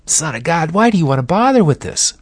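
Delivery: high, quick, wheedling tempter voice; a sly devil whispering doubts, pitched high; Satan tempting Jesus. Retold or imitated. Satan tempting Jesus in the garden, high and wheedling. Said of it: "Can't you almost hear Satan saying".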